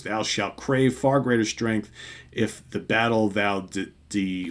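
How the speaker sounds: slow, grand archaic reading, faltering at the end; lightly declaimed Thor. Acted. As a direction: declaim slowly, then trip on a word. Reading Thor, stumbling on the text.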